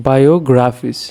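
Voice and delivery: বায়োগ্রাফিস said carefully, weight on গ্রাফ; stress on গ্রাফ. Shown as a demonstration. Teacher repeating for students, বায়োগ্রাফিস stressed on গ্রাফ. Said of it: "এখানে গ্রাফ হচ্ছে".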